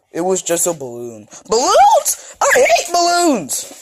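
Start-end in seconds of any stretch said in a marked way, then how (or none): 1.5-3.7 laughing shout. Acted. Character reacts to balloons.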